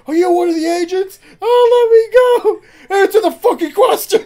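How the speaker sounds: shouting, high and loud; acted interrogation. Mila shouting at the kid dangling over the bridge. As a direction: yell both voices in a hammed-up standoff. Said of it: "hangs the kid over the bridge".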